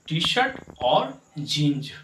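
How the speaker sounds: टी-शर्ट और जींज said slowly with जींज ending in z; clear model reading. Shown as a demonstration. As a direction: spell out each word carefully. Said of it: "not जींस".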